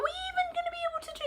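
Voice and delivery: frustrated whisper. Real, not acted. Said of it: "I'm getting frustrated".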